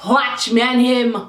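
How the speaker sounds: slow Jamaican-accented "Watch me and him". Shown as a demonstration. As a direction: say "Watch me and him" slowly with a Jamaican lilt, like a warning. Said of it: "If you're Jamaican, you know what that means".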